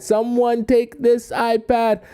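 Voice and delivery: high, drawn-out plea to passers-by; acted begging. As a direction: beg strangers in a high voice. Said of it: "and I'm begging people".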